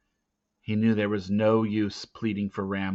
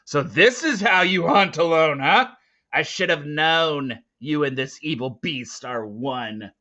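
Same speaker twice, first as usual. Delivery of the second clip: a touch of raised angry voice; angry accusation; 5 semitones higher, 5 dB louder than usual. Acted. Volt accusing Teo, mildly raised and angry. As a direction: accuse him, voice lifted. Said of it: "he cried".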